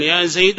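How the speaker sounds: "زيد" given an -un ending; wrong tanween. Shown as a demonstration. Teacher warns against the form, "زيد" said Zaydun. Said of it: "فلا تقل".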